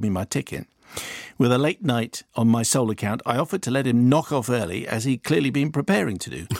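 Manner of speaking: measured radio read of a listener's email; reading a letter aloud. Acted. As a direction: present the written words in full, composed sentences.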